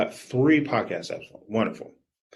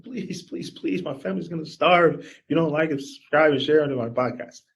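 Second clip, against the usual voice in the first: begging; 3 semitones higher, 4 dB louder than usual. Retold or imitated. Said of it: "We're not begging them".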